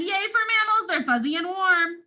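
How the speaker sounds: bright storybook yay; cheering. Acted. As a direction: cheer them on for the kids. Cheering reading of mammals page.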